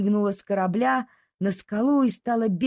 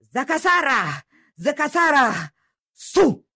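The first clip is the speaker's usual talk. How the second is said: dog crying out; 6 semitones higher than usual. Acted. Dog crying from the deck to the doctor, building. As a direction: bark the strange words, climbing. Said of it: "крикнула доктору".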